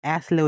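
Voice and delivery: অ্যাসলে as "as-le", S audible; S pronounced. Shown as a demonstration. Teacher explains the spelling has an S, অ্যাসলে with S sounded. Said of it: "সেজন্য আমরা এস কে".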